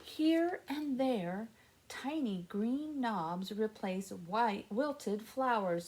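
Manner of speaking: gentle storybook reading; reading to children. Acted. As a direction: read it slowly to little listeners. Reads picture book to kids.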